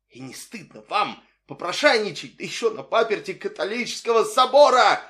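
an indignant shout at a beggar on cathedral steps; indignant outcry. A narrator's reading. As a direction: cry out in outrage. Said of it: "вскричал Лисоцкий".

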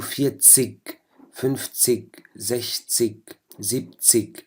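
فيتسيج and فنفتسيج ending in a hard regional g; regional German "-zig". Shown as a demonstration. Teacher shows regional German pronunciation to students. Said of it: "بيلفظوها كحرف جي".

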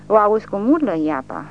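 high, loud frenzied yell; rabid shout. A narrator's reading. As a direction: shout like a madman. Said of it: "strigă Gheorghe ca un turbat". (strigăt turbat, tare și înalt)

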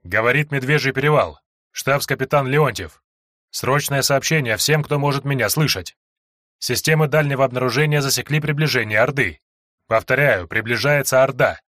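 urgent message through radio static; crackly distant radio broadcast; fading shortwave radio. Acted. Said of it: "через помехи проступил человеческий голос".

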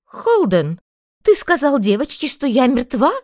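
mother exclaiming loudly. A narrator's reading. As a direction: exclaim in disbelief. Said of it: "воскликнула женщина".

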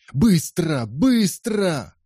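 very high frantic urging. A narrator's reading. Urging the old man to flee: very high frantic. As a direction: hurry them in panic.

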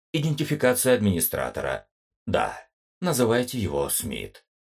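бубнящий металлический голос компьютера; бесстрастный голос машины, чуть быстрее; booming metallic robot. Acted. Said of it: "обезличенный металлический голос компьютера". (обезличенный металлический голос компьютера)

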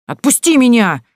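put-on frightened girl yelling at a stranger. A narrator's reading. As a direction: yell it while struggling to break free. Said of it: "завопила Танька".

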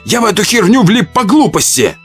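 high, panicky excuse; self-justifying. Acted. Surgeon excusing himself before being killed, panicky. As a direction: plead stupidity in a high voice. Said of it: "начал оправдываться хирург".

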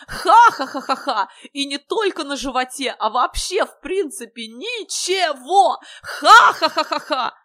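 high, loud staged cackling; guffawing very loudly. A narrator's reading. Silly guest laughs at the hero, high raucous guffaws. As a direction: crow in a high voice between bursts of ha-ha. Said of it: "Иван хохотал так громко".

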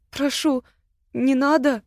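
high, frightened plea; pleading. Acted. Ирма begs Агата holding a knife, pleading high. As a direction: beg her not to do it. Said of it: "взмолилась та".

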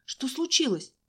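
high startled question; girl waking up startled after fainting; startled cry. A narrator's reading. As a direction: blurt it out, startled awake. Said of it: "она от неожиданности вскрикнула".

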